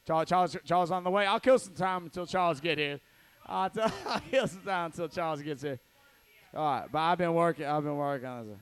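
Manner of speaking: lightly voiced emcee filling time; Francisco impression. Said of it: "my Francisco impression".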